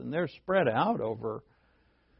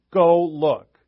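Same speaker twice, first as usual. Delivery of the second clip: louder "Go look." with a push on "Go"; loud command; 3 semitones higher, 10 dB louder than usual. Shown as a demonstration. Jesus ordering the disciples loudly to go look. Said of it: "Or he could have said it loud".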